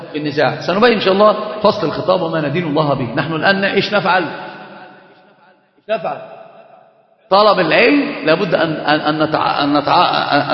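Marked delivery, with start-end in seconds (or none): 4.2-6.2 repeats the question in a low hush; whispered question. Shown as a demonstration. Teacher repeats his question to the class in a hushed whisper. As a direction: drop to a near whisper, slow.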